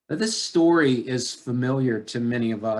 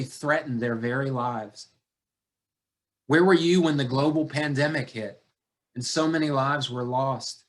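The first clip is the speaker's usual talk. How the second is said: pleading lament. Acted. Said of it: "preacher's rising lament".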